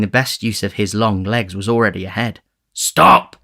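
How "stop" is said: high, loud command to halt; raised, urgent order; repeated shout. A narrator's reading. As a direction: yell sharply after a runaway. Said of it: "The repetition of the word".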